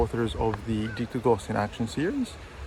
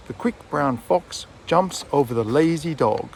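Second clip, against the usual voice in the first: "quick", "brown", "fox", "jumps", "lazy", "dog" a little louder; content-word stress; 2 semitones higher than usual. Shown as a demonstration. Teacher models the sentence for students, content-word stress. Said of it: "say them a little bit louder, maybe slower".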